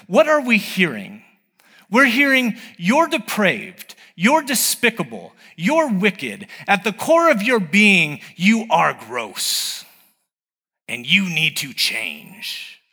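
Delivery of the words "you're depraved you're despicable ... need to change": slow, lightly voiced accuser, each insult drawn out; accusing demon voice. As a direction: lay out the charges slowly like a condemning voice. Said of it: "that's also the voice of the demons".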